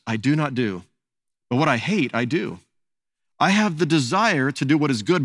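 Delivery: measured, earnest Bible reading; solemn reading aloud; scripture reading. Acted. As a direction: read the verse to the congregation. Reads Romans seven aloud.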